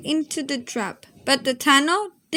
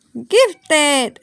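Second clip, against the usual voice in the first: shouting; 5 dB louder than usual. Acted. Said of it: "I shouted".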